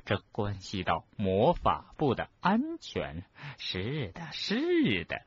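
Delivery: drawn-out, lilting self-persuasion; talking herself into it. Acted. Professor talking herself into breaking rules, self-persuading. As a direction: lightly muse aloud in character. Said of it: "他好像在自言自语，说服自己做什么事情".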